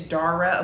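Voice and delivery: Dara settled as DAH-ruh; first-syllable AH in Dara. Shown as a demonstration. Confirming the viewer's name, Dara pronounced DAH-ruh. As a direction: say Dara with an open "ah". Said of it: "Tell us how to pronounce your name".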